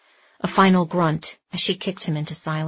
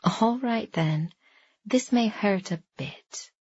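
softer, slow sinister tease; sly cackling villain; 2 semitones higher, 5 dB quieter, slower than usual. A narrator's reading. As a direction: purr the threat, a touch slow. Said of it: "With a strange cackle".

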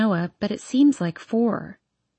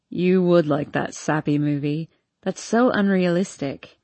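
a hint of a drunk young man; town drunk; 3 semitones lower than usual. Hardin mocking.

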